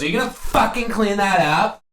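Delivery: lightly mocked high Karen voice; mock white lady voice. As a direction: sneer it like a Karen. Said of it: "like, white bitch accent ever".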